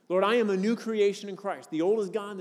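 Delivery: a firm, ringing confession; bold confession. Shown as a demonstration. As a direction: proclaim it with rising conviction. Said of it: "That I confess".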